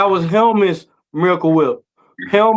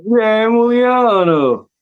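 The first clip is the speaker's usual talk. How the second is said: higher, drawn-out mock Italian; mock Italian accent; 4 semitones higher, much slower than usual. Joking about mobster stereotypes with friends, mock Italian accent. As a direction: stretch it out like a hammed-up Italian. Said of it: "a Brooklyn Italian accent".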